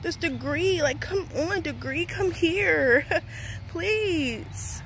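high, drawn-out mock begging; whiny, coaxing plea; playful pleading. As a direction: beg for it half-joking, with a little laugh. Pleading with the degree to come.

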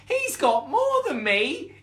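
high, loud, drawn-out whine; yelping cub. Acted. Third cub complaining to mother about a sibling, yelping. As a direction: yelp it slowly, rising at the end. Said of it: "yelped the third".

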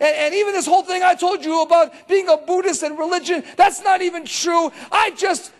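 imitating an overwhelmed woman venting; upset woman. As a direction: voice her building frustration. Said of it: "She goes".

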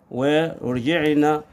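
a long slow ورجعنا before the restart; slow drawn-out ورجعنا; drawn-out word. Shown as a demonstration. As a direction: stretch ورجعنا out slowly, savouring it. Host drags the word out.

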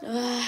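sudden sneeze; sneezing. Real, not acted. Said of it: "paranormal bir hapşurma".

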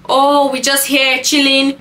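a hint of a hangout boast; always-outside party guy. Party man reporting his Tuesday evening, light high mocking drawl. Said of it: "those men that are always outside".

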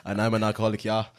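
mock German with "ja" tagged on; comic German confession; German accent. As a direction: put on a lightly done German accent.

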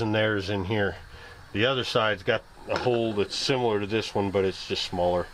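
talking around a cigarette; words round a cigarette in the lips; cigarette in mouth. Real, not acted. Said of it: "I'm sitting there talking with a cigarette in my mouth".

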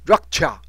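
rock cha as rak-cha, k barely sounded; very light k. Shown as a demonstration. Teacher repeating the correct sound, "rock cha" with k nearly silent. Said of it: "那克的音非常轻".

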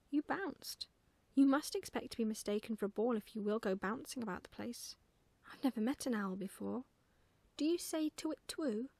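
put-on lively, emphatic child character, matter-of-fact; lightly voiced bossy little girl; pert little girl. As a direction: explain firmly, then ask with curiosity.

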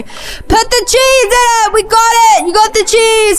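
high, exasperated yelling; frantic exclaiming. Real, not acted. Player flustered by a cheeseburger order, frantic high yell. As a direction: call it out high and worked up. Frantic reaction while cooking.

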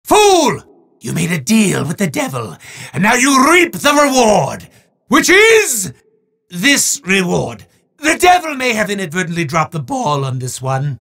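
grand, theatrical villain proclaiming to a mortal; booming mock-sinister showman, with quick legal asides; hammy demon host. Demon Marasmus handing a prize to a mortal, hammy menace.

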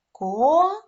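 "Ко-ра-бель" in three widely separated beats; syllable by syllable. Shown as a demonstration. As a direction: count out "Ко-ра-бель" with long pauses between syllables. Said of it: "скільки складів у слові".

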